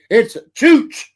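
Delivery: "chooch" punched high and loud with a rising tune; mock-quoting with a big push on "chooch"; emphasis on chooch. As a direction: lean hard on "chooch", up and loud. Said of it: "he puts the emphasis on that chooch".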